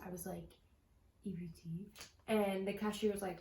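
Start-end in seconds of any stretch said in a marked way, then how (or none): 1.3-1.9 quiet, low and muffled, embarrassed. Retold or imitated. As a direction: mumble it low so nobody hears. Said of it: "a low, muffled voice".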